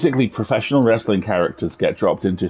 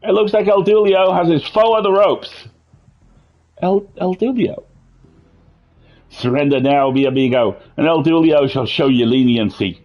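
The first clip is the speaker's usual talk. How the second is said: put-on Irish accent; 4 semitones higher than usual. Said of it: "Your Irish accent saying "mi amigo".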